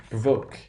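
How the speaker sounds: "Provoke" with a long diphthong O. Shown as a demonstration. Teacher demonstrating the long value for the stressed syllable, long O. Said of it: "That is the long value".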